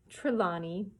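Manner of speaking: "Trelawney" said slowly through a laugh; laughing correction. Real, not acted. Reader fixing a stumbled name, laughing. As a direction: chuckle and sound out "Trelawney".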